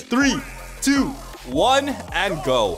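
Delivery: drawn-out countdown call. Real, not acted. Player counting down the round, drawn-out countdown. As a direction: count them in, stretching the words.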